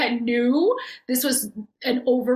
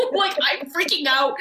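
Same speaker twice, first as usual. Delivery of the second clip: laughing; 4 semitones higher than usual. Real, not acted. Laughs while describing her fear.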